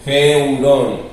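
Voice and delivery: "Geurón" opening on a Spanish jota; rough breathing. Shown as a demonstration. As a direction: say "Geurón" with the J sounded before the E. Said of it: "la J del espíritu áspero". ("Geurón" con jota antes de la E)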